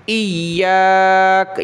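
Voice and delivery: ایاک with the final sound stopped at a pause, slow; pausal form. Shown as a demonstration. Teacher showing how to stop on the word, pausal ایاک. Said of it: "وقفاً".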